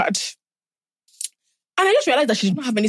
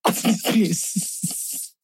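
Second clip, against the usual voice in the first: laughing; 5 dB quieter, much slower than usual. Real, not acted. Laughing through the punchline.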